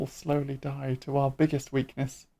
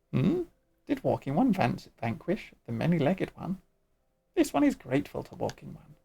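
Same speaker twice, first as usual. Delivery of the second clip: squeaky sylph voice. Acted. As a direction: play a tiny sing-song forest spirit. Sylph voice again.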